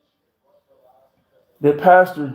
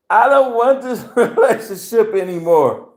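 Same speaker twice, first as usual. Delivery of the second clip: higher, laughing, a mimicked girlfriend; mock woman's voice; 5 semitones higher than usual. Man quoting girlfriend breaking up, mock high voice. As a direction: imitate her pleading, lightly.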